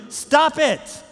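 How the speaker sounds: sharp high shout to the congregation; yelling. Real, not acted. Preacher shouting at the congregation to stop it. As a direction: bark it out, stop it now. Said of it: "I know me yelling, "Stop it".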